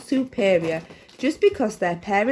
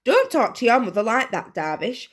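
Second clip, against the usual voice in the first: higher, louder put-on scolding; mock angry shout; 5 semitones higher, 4 dB louder than usual. A narrator's reading. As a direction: pretend to be cross. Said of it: "she shouted, pretending to be angrier".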